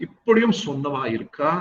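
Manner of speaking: quick Tamil quip read at speed; fast, reading out a saying; rattled off fast. Retold or imitated. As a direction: zip through the quote. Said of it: "There are people who said this".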